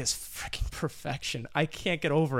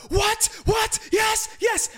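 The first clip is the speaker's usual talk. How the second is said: much higher, louder shocked then cheering yells; screaming; 4 dB louder, much slower than usual. Retold or imitated. Host acts out her panic notes to co-host, shrieking. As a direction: shriek it in disbelief, then triumph. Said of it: "Sorry if I'm screaming".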